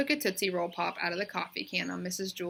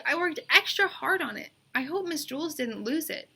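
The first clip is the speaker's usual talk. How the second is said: put-on girl's insistent voice; 8 semitones higher than usual. A narrator's reading. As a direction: draw out the yes like a stubborn kid. Bebe worried about homework.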